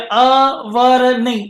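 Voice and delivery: अवर slowly as a-var, then rejected; slow अवर as the wrong way; wrong reading. Shown as a demonstration. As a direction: drag out अवर to show the mistake. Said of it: "कुछ लोग इसको अवर पढ़ सकते हैं".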